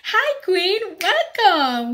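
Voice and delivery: high, loud, bubbly hellos; squealing welcome to the fans; excited greeting. Real, not acted. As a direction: greet your viewers with a burst of joy. Lively greeting opening the video.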